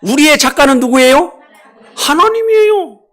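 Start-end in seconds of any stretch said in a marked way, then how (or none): 1.9-3.0 much higher, slow proclamation; preacher's soaring answer; exalted declaration. Real, not acted. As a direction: lift it up triumphantly. Answering own question, exalted.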